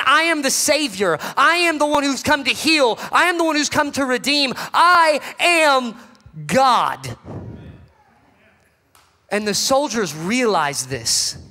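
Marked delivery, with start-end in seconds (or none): 0.0-7.2 rising proclamation. Acted. Preacher voicing Jesus to the church, building proclamation.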